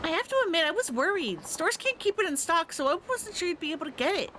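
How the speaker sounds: put-on a thrilled girlfriend gushing over her gift. Girlfriend admits she worried.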